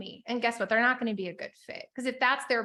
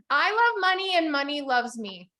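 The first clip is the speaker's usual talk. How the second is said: affirmation lead. Shown as a demonstration. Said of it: "Just say it with me".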